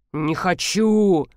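very slow mumble, хочу falling away; sulky slow mutter of "Не хочу"; mumbled. Acted. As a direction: grumble "Не хочу" slowly, letting хочу drop. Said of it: "пробубнил Александр Михайлович".

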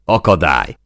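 short, loud shout; yelled back. A narrator's reading. Gunner yelling back down from the turret, shouted. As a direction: fire one word back loudly. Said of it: "üvöltött vissza Zó".

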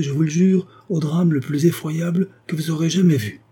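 a wronged woman vowing vengeance; vengeful condemned woman. Acted. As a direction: swear revenge with cold fury. Flavia swears revenge.

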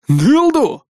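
high, indignant snarl; bare teeth at the insult. A narrator's reading. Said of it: "ощерилась Гришрари". (Гришрари ощерилась, возмущённо и высоко)

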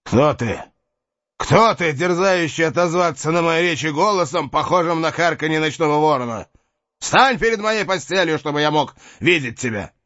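defiant cry from a sickbed; exclaiming. Acted. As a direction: challenge the unseen voice. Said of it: "воскликнул".

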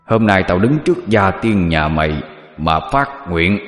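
low booming demon voice; booming thunder voice. A narrator's reading. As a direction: roar it out like rolling thunder. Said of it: "nói cái giọng vang như sấm rền". (giọng vang như sấm rền, trầm và dữ)

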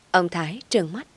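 ordinary delivery

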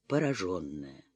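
usual speaking voice

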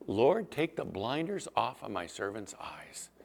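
hushed, whispered plea to God; a prophet whispering his prayer. Retold or imitated. Prophet prays over his servant.

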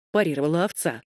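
usual speaking voice

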